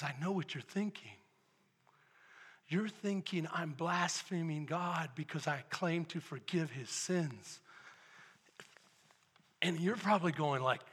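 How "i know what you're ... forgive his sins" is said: low, soft, measured confrontation; quietly knowing Jesus. Acted. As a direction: drop right down after the uproar. Voicing Jesus calmly confronting skeptics.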